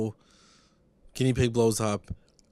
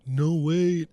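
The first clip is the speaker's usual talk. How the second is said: higher, louder retold cry of alarm; mock disbelief; 8 semitones higher, 7 dB louder than usual. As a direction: imitate a startled protest, pitched up. Acting out the family's alarmed reaction.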